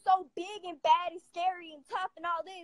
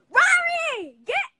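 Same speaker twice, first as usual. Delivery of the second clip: high sing-song cooing, a little louder; pet talk; 11 semitones higher, 9 dB louder, much slower than usual. Real, not acted. Calling the pet by name.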